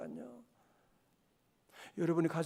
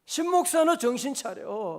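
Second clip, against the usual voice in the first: sharp scolding of himself; self-rebuke; 2 semitones higher, 4 dB louder than usual. Retold or imitated. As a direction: snap yourself awake, louder. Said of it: "막 그러게".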